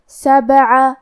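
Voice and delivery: سبع with a bounce on the ba; qalqala on ba. Shown as a demonstration. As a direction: shake the ba in سبع. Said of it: "ہلاتے ہوئے یہ کلمہ کو پڑھیں گے". (سبع میں با پر قلقلہ)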